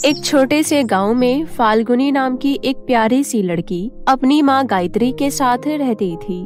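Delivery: usual speaking voice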